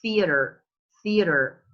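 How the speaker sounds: theater with tongue between the teeth; TH sound. Shown as a demonstration. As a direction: stress the clear TH opening theater. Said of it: "The, the tongue between your teeth".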